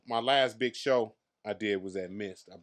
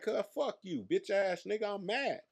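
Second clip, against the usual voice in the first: much higher, hammed-up indignant retort; mock-snap back at an old rival, pitched way up; mock angry brush-off; 10 semitones higher than usual. Retelling his own brush-off.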